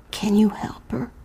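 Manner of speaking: hushed mother's whisper. Acted. Mother asking the visitor for help, whispered. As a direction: breathe it as a worried mother. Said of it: "her mother's whisper".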